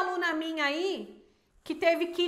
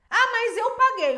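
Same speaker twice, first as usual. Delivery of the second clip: retold angry protest; 6 semitones higher, 6 dB louder than usual. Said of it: "ela ficou brava".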